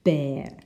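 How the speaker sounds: "bear" with an AIR vowel, not EAR; different vowel. Shown as a demonstration. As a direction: say "bear" clearly to rhyme with air. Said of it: "the word which is different is bear".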